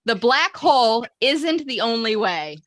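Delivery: slow, deliberate affirmation; each word stretched with conviction; mantra lead. Shown as a demonstration. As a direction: lead it for a group to repeat. Leading group affirmation for repeating.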